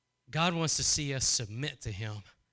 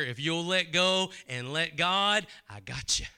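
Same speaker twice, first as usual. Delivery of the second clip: gentle promise from God. Acted. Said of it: "You hear the Spirit of God saying".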